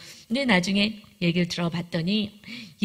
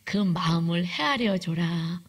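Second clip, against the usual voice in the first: 1 calm inner voice; 3 semitones lower, slower than usual. Retold or imitated. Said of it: "제 안에서 음성이 들리는".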